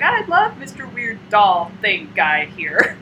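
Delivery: slow, lightly imitated child's fondness; doting little girl. Girl playing with her new doll, doting. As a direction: gush slowly like a kid naming a toy. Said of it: "the way she's saying it".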